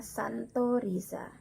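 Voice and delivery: "Santo Risa" opening on a clean s; X read as S. Shown as a demonstration. Teacher modelling the Latin, "Santo Risa" with initial s. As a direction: say "Santo Risa" carefully, san-to-ri-sa. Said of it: "dibaca S jika pada permulaan".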